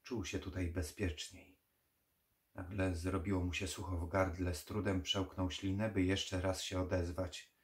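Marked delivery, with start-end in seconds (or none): none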